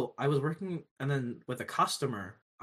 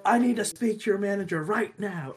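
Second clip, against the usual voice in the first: mock entitled demand; 7 semitones higher, 5 dB louder than usual. Customer demanding the manager.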